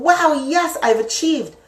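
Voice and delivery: high, triumphant exclamation; acted happiness. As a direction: celebrate a win, pitch way up. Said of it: "went from being so happy".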